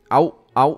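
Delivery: loud "ow, ow"; mock pain yelp. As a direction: yelp as if being hit in play. Pretends policeman is hurting him. (hlasité hrané bolestné vyjeknutí)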